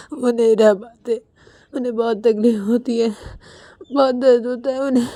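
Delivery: tearful pleading with sobs between lines; crying. Retold or imitated. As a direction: sob between the phrases, mildly. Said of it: "Ravi रोते तो बोलते कि". (हल्का रोते हुए गिड़गिड़ाना)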